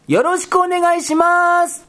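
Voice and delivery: cheery stage greeting, replayed; mock greeting. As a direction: act out the proper opening greeting. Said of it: "つって".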